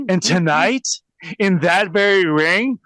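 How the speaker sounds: mocking cheesy promo cadence; mock wrestler catchphrase. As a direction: quote the stock promo line with a smirk. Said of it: "count how many times you hear".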